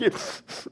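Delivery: short unvoiced mock sniffles; imitated crying. Teacher imitates the student heading back to his seat, mock crying. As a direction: sniffle like you are pretending to cry. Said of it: "he starts crying".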